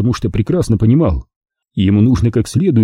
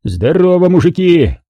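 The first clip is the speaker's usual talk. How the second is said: hearty greeting; 7 semitones higher than usual. Acted. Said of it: "вторил мне полковник".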